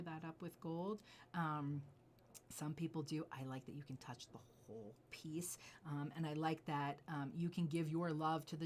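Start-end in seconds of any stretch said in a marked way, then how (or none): 3.3-5.6 soft confiding whisper; hushed aside about the jade. Real, not acted. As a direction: lean in and whisper it to a friend.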